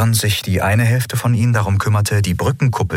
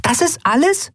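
very high, rising on "ist"; indignant Nelen. A narrator's reading. Nelen scolds Endriel, very high and indignant. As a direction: demand with hands on hips. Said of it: "Hände in die Hüften gestützt".

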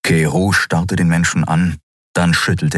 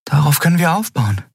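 put-on higher young woman, insistent; Endriel's voice; 6 semitones higher than usual. A narrator's reading. Endriel arguing with Keru, higher insistent young voice. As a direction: lift into her earnest pleading.

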